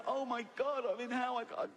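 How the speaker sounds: mock panic. Fundamentalist panicking on waking in hell.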